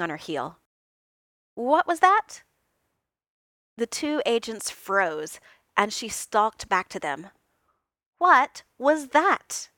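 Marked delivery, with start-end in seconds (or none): 1.5-2.4 sharp demand. A narrator's reading. Natasha demands agents repeat. 8.2-9.7 menacing repeat. A narrator's reading. Natasha repeats demand.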